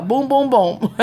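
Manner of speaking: high giggling booms; playful laughing chant. Pretend. Joking about heavy head.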